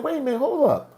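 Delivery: tense wait-a-minute protest; nervous. Retold or imitated. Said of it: "I'm getting nervous now".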